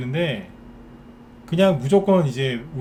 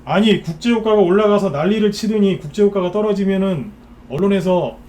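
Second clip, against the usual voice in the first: loud, higher-pitched protest; indignant, pushed-up outburst; exasperated rant; 5 semitones higher, 7 dB louder than usual. Real, not acted. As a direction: raise your voice in exasperation at the contradiction. Ranting at media flip-flops.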